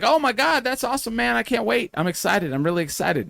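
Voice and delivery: put-on high, excited old man voice; old wrestler impression. Imitating Jimmy Hart gushing to a young wrestler. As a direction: gush it like a thrilled old showman. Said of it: "That's actually a really good impersonation".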